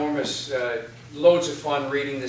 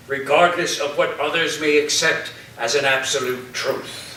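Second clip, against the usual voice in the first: mildly stern captain's farewell speech; ship captain; 3 semitones higher than usual. Acted. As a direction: address the crew like a commanding officer. Captain addresses crew in play.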